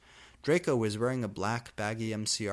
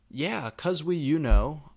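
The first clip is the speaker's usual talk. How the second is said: higher, loud mocking echo; angry voice; 5 semitones higher, 8 dB louder than usual. Goth girl mocking Draco's excuse, hammed-up anger. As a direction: throw his words back at him, mildly angry. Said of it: "I yielded in an angry voice".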